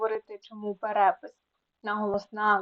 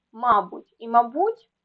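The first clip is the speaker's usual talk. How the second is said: МАбуть, then маБУТЬ; double stress; 5 dB louder than usual. Shown as a demonstration. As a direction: show both stresses of мабуть, first syllable then last. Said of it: "слова з подвійним наголосом".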